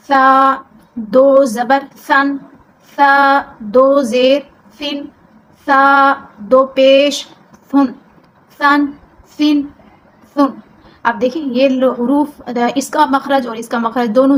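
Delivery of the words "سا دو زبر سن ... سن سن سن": سا said gently with no whistle, slow drill; soft sa. Shown as a demonstration. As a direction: spell سن softly, no hiss. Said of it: "نرمی سے پڑھیں گے آپ".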